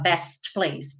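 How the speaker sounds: BEST PLACE with the T released; careful "best place", T intact; T pronounced. Shown as a demonstration. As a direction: sound the T before "place". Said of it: "Ele comeu o T aqui pra não falar".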